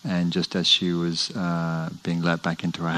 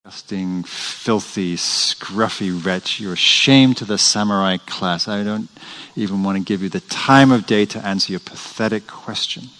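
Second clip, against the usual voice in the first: scornful monk, rising louder; contemptuous insult; 4 dB louder than usual. Retold or imitated. Monk scorning the scruffy samurai, contemptuous and loud. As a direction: spit out the insults with disdain.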